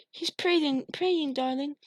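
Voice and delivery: high, light motherly voice; mother calming her son; soothing mother. A narrator's reading. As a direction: reassure him gently.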